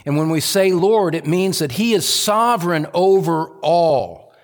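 high, insistent preaching build; emphatic preaching. Real, not acted. Preacher to congregation on sovereign authority, emphatic preaching. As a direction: preach toward a ringing, high-pitched climax.

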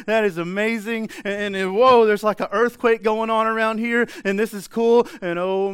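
high, loud, excited babble of amazement; acted starstruck wonder, running on breathlessly; awestruck. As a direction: gush as if overwhelmed by what you see. Acts out man overwhelmed seeing God.

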